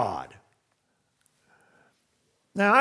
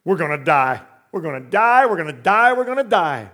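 repeated panicky cry, rising; hammed-up terror, getting louder; mock panic; 7 dB louder than usual. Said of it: "Listen, he says".

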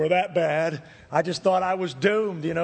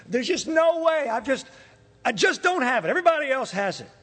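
higher-pitched, frustrated complaint; exasperated self-pity; 6 semitones higher than usual. Retold or imitated. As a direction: throw up your hands in defeat. Replays his despair after interview.

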